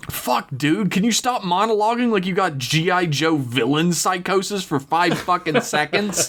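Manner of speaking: high exasperated outburst; incredulous, laughing at the villain. Real, not acted. Player mocking the villain monologue.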